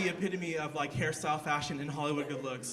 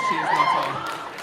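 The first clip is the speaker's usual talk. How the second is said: squeaky repeat; 10 dB louder than usual. Real, not acted.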